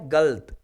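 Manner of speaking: गलत as one syllable, galt; vowel dropped. Shown as a demonstration. Teacher explaining a dropped vowel, गलत said as galt. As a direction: say गलत without the a after ल. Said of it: "अ जो स्वर है उसको हटा दिया".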